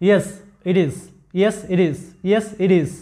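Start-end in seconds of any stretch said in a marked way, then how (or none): 1.4-2.9 it is with the T flapped to a quick D, idid-is; flap T demo. Shown as a demonstration. Teacher modelling the flapped T for students, careful demo. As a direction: tap the T of it lightly into is. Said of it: "লক্ষ্য করো, it is".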